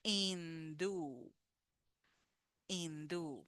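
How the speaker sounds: hindú with silent h and stress on the end, in-DÚ; teacher modelling hindú; model word. Shown as a demonstration. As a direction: drop the h and hit the final ú of hindú. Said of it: "the H in Spanish does not sound".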